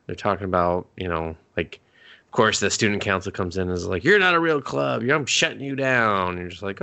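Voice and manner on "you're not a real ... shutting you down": mock-officious, higher at the start; officious scolding. Student council shutting down a school club, mock-officious. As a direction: imitate an official laying down the law.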